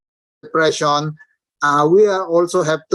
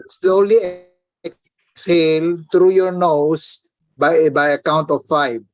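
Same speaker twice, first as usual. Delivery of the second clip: slow exhale cue. Shown as a demonstration. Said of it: "let's try it".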